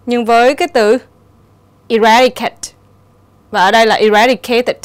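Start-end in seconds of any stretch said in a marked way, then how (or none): 1.9-2.7 "eradicate" stressed on RAD, the second syllable. Shown as a demonstration. Teacher showing the odd word out, stress on second syllable. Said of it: "thì nó nhấn âm thứ nhì". 4.0-4.8 "eradicated" stressed on RAD, the second syllable. Shown as a demonstration. Teacher showing the odd word out, stress on second syllable. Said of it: "thì nó nhấn âm thứ nhì".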